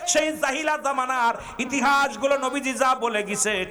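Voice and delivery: high chanted outcry, building to a peak; impassioned preaching. Real, not acted. Preacher decrying injustice in the country, impassioned preaching. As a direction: pile up the grievances in a ringing voice.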